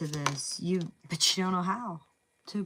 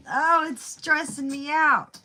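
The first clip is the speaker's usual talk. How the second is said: mock stressed; 8 semitones higher, 6 dB louder, slower than usual. Stressed reaction to the card.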